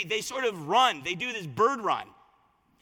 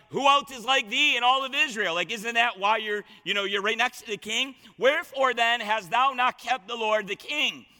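taunting. Acted. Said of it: "he's just taunting him".

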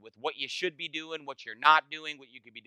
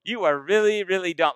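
playful scorn; mock condescension; 2 semitones higher than usual. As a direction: talk down to him with a grin. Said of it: "And I would say".

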